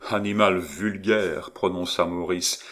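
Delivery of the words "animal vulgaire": disdain. Acted. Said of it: "indicible expression de dédain".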